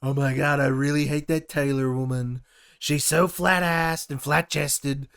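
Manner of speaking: a hint of a grumbling Trump; lightly mocking Trump ranting to himself; playful Trump impression, barely voiced. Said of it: "he was sitting there going".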